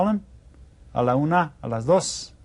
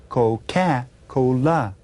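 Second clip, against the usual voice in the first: Coca-Cola broken up slowly, co-ca co-la; Coca-Cola in slow, separate pieces; slow syllables; much slower than usual. Shown as a demonstration. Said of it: "would know that I said".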